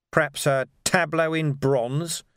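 lightly sarcastic, drawn-out proposal. Acted. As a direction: offer it with pointed false enthusiasm. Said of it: "said Vimes sarcastically".

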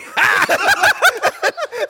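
high, loud mock laughing; imitated laugh. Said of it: "him looking at Dakota, like".

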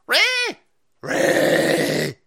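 loud call of a name. Real, not acted. Calling to his friend Ray, loud shout. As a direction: shout the name across the room.

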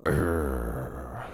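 mock growl. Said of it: "she'll growl into it".

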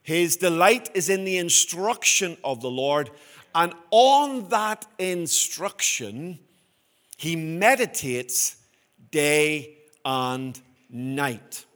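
very slow, drawn-out reading, stretching day and night; meditative scripture reading. Acted. Pastor rereads the verse with his own wording, slow and meditative. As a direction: let instruction and meditates sink in slowly. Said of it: "a better translation for me".

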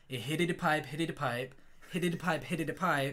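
lightly put-on New York accent; a joke New York workman's accent. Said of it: "It's a New York accent".

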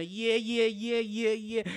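high, loud eager yeahs; excited yeah yeah. Retold or imitated. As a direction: gush yes over and over. Employer eager to hire.

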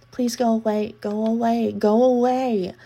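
panicked shout growing to the last; desperate building shout. Acted. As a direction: push her away with each word. Desperate repeated go away.

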